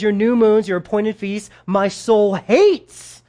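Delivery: understated anger, last words drawn out slowly; aggressive God. Acted. God rebuking his people over empty feasts, aggressive. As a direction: build to a slow, emphatic final phrase. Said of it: "Could God be any more aggressive?".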